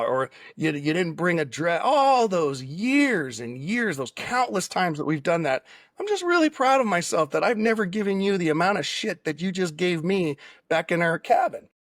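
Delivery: setting her up with playful fake serenity; sarcastic and facetious. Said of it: "sort of being sarcastic and facetious".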